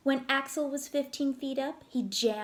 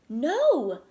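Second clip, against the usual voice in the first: louder, firm refusal; 4 semitones higher, 8 dB louder than usual. Acted. Father to his son, firm loud no. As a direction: stop him flat.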